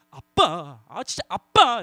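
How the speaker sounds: 투덜대듯 '아, 진짜 아빠'; 짜증 난 아이처럼 툴툴대며. Shown as a demonstration. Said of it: "세 번째 아빠". (아빠에게 짜증 내는 아이)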